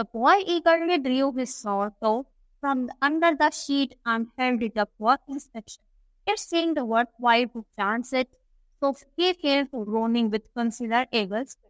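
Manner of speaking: slow, deliberate English reading; story read-aloud. A narrator's reading. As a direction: read it out slowly for a class. (धीमे-धीमे कहानी का पाठ)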